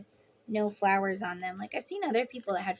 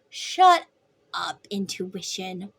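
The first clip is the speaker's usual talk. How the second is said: playful snap; 4 semitones lower, slower than usual. Pretend. Snapping at own intuition.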